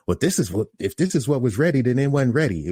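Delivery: high, argumentative retold protest; imitating customer going on. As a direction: mimic her arguing back in a high voice. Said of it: "she just going on".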